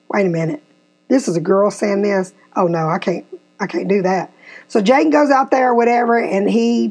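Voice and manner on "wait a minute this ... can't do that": put-on grumbling boy. Son's reluctance voiced lower.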